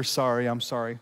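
soft, low, heartfelt "Sorry, I'm sorry"; sincere apology. Retold or imitated. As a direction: say it like you truly mean it. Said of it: "it begins with a sincere".

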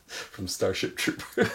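breathy whispered aside. Real, not acted.

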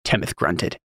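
ordinary delivery

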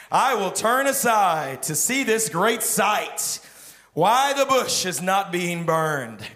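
loud, slow, deliberate declaration; slow resolute Moses. Acted. Moses resolving to see the bush, loud slow declaration. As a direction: proclaim it like Moses deciding. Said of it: "Moses said to himself".

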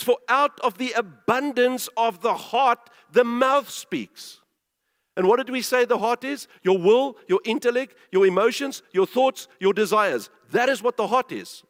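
emphatic pulpit voice; forceful sermon delivery; preaching. Real, not acted. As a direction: hammer each point home. Preaches on scripture at full force.

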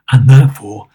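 loud, low mock-stern build-up; gruff, emphatic pronouncement; Scrooge. A narrator's reading. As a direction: boom it like a looming threat. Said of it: "growled Scrooge in his accustomed voice".

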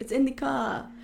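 "in" pressed firmly; stress on in. Shown as a demonstration. Correcting the co-host, leaning on in. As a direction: hit the word "in". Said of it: "correcting preposition".

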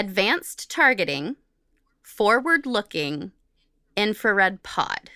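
slow, word by word, spelling out "Advanced Targeting Forward-Looking Infrared Pod"; reading a long jargon name with care; slow deliberate reread. Shown as a demonstration. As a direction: spell out each term carefully so it lands. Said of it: "Let me say that again".

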